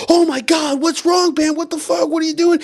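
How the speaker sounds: high, frantic wife voice; alarmed wife. Retold or imitated. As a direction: play the wife bursting in, alarmed. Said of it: "And so his wife's like".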